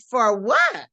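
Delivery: high, quick challenge as mother; mock-indignant mother, rising high; imitating mother. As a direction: pitch way up like a taken-aback mom. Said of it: "my mother said".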